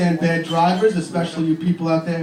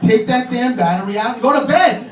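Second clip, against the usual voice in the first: stern order; 5 semitones higher, 5 dB louder than usual. Retold or imitated. Dad ordering child, building.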